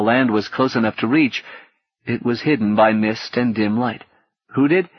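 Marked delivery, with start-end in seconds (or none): 4.5-4.9 put-on a boy half-listening, pitched high; lightly distracted boy. A narrator's reading. Gally's distracted question to Paul, light boy voice. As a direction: ask absently like a child. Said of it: "he asked, distracted".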